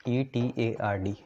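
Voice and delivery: slow, letter-by-letter spelling; each letter given its own beat; spelled out. Shown as a demonstration. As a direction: spell it slowly for note-taking students. Spelling out reaction name for students.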